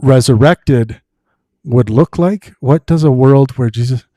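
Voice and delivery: slow, emphatic, carefully enunciated question; clear restating. Real, not acted. Host repeats the question that was not understood, clear and emphatic. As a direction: spell it out slowly for the listener.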